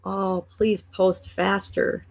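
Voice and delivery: dragged-out, stretched slow words; slow motion voice. Acted. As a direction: drag every word out in frustration. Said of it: "how I talk in slow motion voice".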